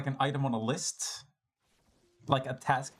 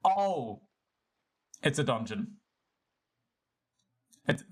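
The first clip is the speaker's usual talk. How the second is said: normal talking voice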